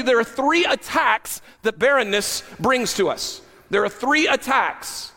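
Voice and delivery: high-pitched, driving sermon delivery; emphatic preaching. Acted. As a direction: preach it with urgent, punched emphasis. Preaches at full force.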